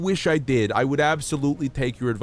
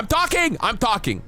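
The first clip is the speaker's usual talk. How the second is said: real shout, much higher and louder; yelling; 10 semitones higher, 4 dB louder than usual. Real, not acted. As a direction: snap loudly at the interrupting voice. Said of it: "I'm sorry I yelled".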